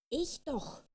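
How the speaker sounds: high, sulky little-girl comeback, lightly voiced; a stubborn fairy answering back in a huff; a hint of angry child; cross retort. A narrator's reading. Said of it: "sagte die kleine Fee böse".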